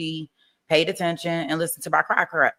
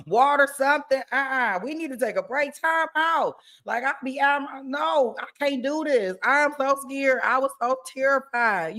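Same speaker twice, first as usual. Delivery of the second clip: mock distraught; 5 semitones higher than usual. Acting out breakdown on stand.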